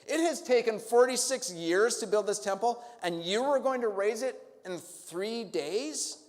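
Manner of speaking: angry priests shouting down Jesus; indignant leaders. Acted. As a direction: scoff at the upstart preacher. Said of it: "They are so mad".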